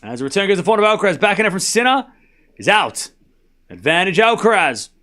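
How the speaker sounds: tennis commentary, quick then settling on the score; live play-by-play. Real, not acted. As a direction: call the point as it happens.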